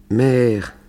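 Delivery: high, drawn-out whine; whiny voice. Acted. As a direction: whimper it like a pleading child. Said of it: "dit-il d'une voix pleurnicharde".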